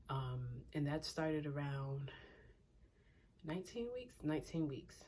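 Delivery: slightly winded, catching breath; breathless while sitting. Real, not acted. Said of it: "I'm out of breath just sitting here".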